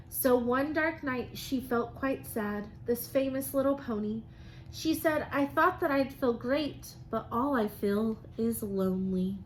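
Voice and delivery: lively, sing-song storybook reading; reading to children. Acted. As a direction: read it like a rhyming picture book to the class. Teacher reads picture book aloud.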